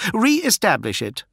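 high, curt royal order; commanding. Acted. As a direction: give the order like a prince.

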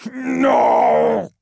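long, loud anguished no; high wail of denial; cried out. Acted. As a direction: cry out in torment. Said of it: "cried Magnus".

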